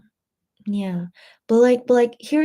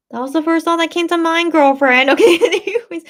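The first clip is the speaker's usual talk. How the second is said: laughing; 8 semitones higher, 7 dB louder than usual. Real, not acted. Laughing at her own joke.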